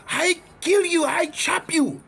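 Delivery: high, accented mock threat; imitated shopkeeper on the warpath; sword-wielding daddy. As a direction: put on an excited accented attacker voice. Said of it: "the daddy got a samurai sword".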